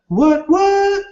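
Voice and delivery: sudden high yelp of surprise; startled, voice jumps up; surprised. Real, not acted. Comments suddenly flood in.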